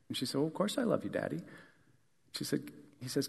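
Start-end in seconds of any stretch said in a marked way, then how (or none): 0.4-1.4 put-on soft, higher little girl; a small daughter answering sweetly; lightly voiced little girl, soft.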